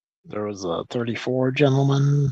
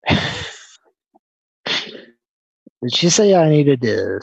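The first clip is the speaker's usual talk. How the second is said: laughing disbelief; 4 dB louder than usual. Real, not acted. Caller laughs at being told off.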